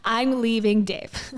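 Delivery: mock excited announcement. Reactor imitating Rachel announcing she's leaving Dave, mock excited. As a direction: parody someone thrilled to break the news. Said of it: "like, so excited about it".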